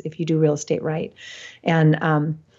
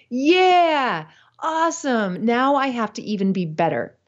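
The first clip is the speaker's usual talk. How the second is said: higher, eager mock cheer; imitating a cheerful climber, pitched up; upbeat; 6 semitones higher than usual. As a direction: bounce up like a delighted rival. Hans cheerfully accepts challenge.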